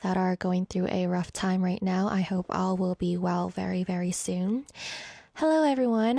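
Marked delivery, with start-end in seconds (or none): 0.0-4.7 gentle, subdued and steady; solemn condolences. Real, not acted. Radio host sending condolences to families going through a rough time, solemn.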